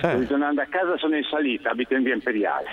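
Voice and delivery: puffing from the uphill walk; breathless, short of air; out of breath. Real, not acted. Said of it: "c'ho il fiatone".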